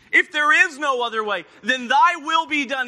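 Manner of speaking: acted plea, loud and resolute; earnest prayer. Acted second prayer to the Father.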